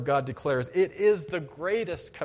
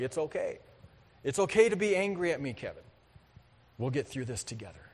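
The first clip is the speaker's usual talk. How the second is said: God's comforting voice; 4 semitones lower, 4 dB quieter, faster than usual. Retold or imitated. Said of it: "here's what I got".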